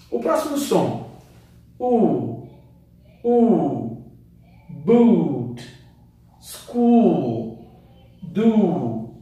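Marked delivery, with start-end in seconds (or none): 1.8-9.1 U in Boot, School, Do held long; teacher drawing out the long U. Shown as a demonstration. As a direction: stretch the oo sound. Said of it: "o som do U é mais longo".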